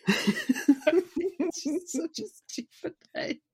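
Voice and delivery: helpless laughter stretching the words; laughing. Real, not acted. Host mocking a stupid name, laughing hard. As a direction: barely get it out through laughter.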